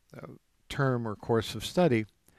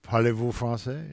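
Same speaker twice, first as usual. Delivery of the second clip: mock French accent, lightly hammed; imitating a tourist's French. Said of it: "You know".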